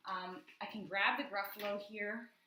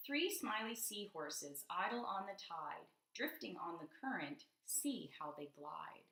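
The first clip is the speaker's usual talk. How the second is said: slow, sing-song picture book reading; reading to children. Acted. Teacher reading a rhyming page to a child, slow and lilting. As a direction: read the rhyme slowly to a child.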